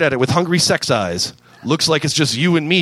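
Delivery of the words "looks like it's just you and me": seductive. Acted. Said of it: "voice that promised two orgasms".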